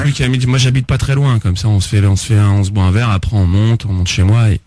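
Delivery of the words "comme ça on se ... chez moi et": low, breathy seductive murmur; sensual voice. Acted. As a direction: purr it low and inviting. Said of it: "La voix sensuelle et tout".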